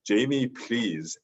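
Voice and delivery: slow, lightly mimicked movie plea; a hint of action-hero begging; Arnold Schwarzenegger impression. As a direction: draw it out like a soundboard clip. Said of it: "Oh, I'm gonna say".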